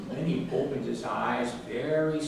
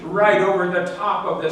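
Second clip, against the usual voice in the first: excited build; 7 semitones higher, 7 dB louder than usual. A narrator's reading. Building excitement in read-aloud.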